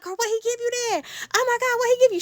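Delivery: mocking exasperation. Speaker pressing Kamari, mocking exasperation. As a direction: demand an answer, exasperated. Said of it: "She talking all mysterious".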